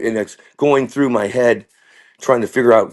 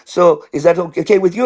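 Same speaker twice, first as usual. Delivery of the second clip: lightly put-on teacher voice, higher; a hint of mock schoolteacher; science teacher; 5 semitones higher than usual. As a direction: imitate a teacher checking with a parent. And she goes.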